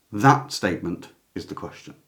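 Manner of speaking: THAT hit first, "is the question" falling away; stress on THAT. Shown as a demonstration. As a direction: point back with a weighted "that". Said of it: "if you stressed it".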